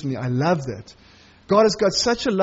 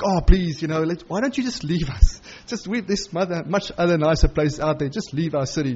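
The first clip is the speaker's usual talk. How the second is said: mock pleading politician. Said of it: "Like real typical politicians".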